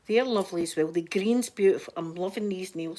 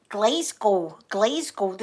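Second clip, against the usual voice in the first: American Glasgow; 4 dB louder, much slower than usual. Retold or imitated. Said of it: "they say Glasgow dead, dead weird".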